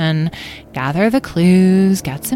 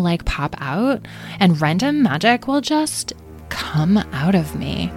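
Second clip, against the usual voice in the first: higher, fretful spiel; fretful rant; 4 semitones higher than usual. Acted. Amethyst warns the group about stray magic, fretful. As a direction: wind up into a dramatic worry.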